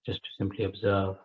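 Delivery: unhurried meditation guidance with long pauses; guided meditation. Acted. Teacher settling a group into breath awareness, guided meditation. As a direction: guide listeners into breath awareness, leaving space between phrases.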